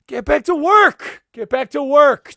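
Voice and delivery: high, loud and slow bark at the elves; mock shouted order. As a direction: yell it like a fed-up boss. Santa barking at elves.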